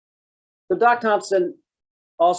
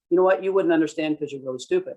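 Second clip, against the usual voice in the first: mock condescending insult; 3 semitones higher, faster than usual. What the citizen hears from the cop, sneering. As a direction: make them feel stupid. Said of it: "that's what they're hearing".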